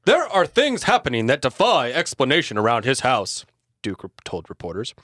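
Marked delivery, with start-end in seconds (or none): 0.1-3.4 loud, booming senator voice; pompous senator oratory. Acted. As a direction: orate it like a politician. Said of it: "what's a good senator voice?".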